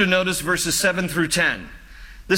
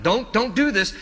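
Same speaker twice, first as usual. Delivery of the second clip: mild imitated plea, pitched higher; retold pleading; 4 semitones higher than usual. Pastor voices David begging God not to, mildly pleading. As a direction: lightly act out begging God. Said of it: "He's pleading with God".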